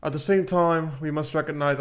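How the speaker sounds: slightly put-on British accent. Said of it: "I'm doing a British accent".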